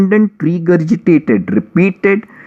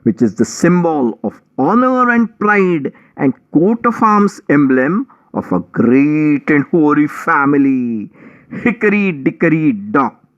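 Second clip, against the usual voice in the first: whiny mouse; 2 semitones higher than usual. Acted. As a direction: play the weepy victim, whining. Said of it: "wailing and weeping".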